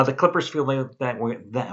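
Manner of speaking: stumbling over words; tripping on the words, restarting; tongue tied. Real, not acted. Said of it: "I can't even talk. I'm tongue-tied today".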